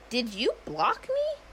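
high, slow, pointed confrontation; accusing question. Retold or imitated. Woman confronts the man who blocked her, accusing. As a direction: draw it out high, calling him out.

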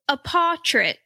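lightly voiced sleepy kid; a hint of a drowsy child's punchline. Son telling mom a joke at dawn, light kid voice. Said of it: "like that".

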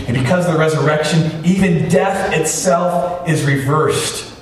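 measured, emphatic pulpit cadence; impassioned preaching. Real, not acted. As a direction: build phrase by phrase to a triumphant declaration. Preaches at full force.

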